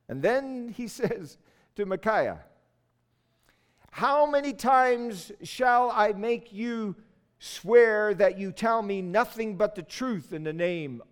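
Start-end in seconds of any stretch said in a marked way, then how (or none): 3.9-11.0 raised, drawn-out royal rebuke; exasperated demand. Acted. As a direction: demand the truth, stretching the opening words. King rebukes the sarcastic prophet.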